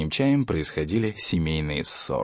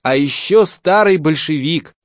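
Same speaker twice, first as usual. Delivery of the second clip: loud, slow jeer; mocking call, loud and drawn out; shouted after him; 7 semitones higher, 7 dB louder, slower than usual. A narrator's reading. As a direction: son yells after the fleeing father. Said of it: "прокричал ему вдогонку".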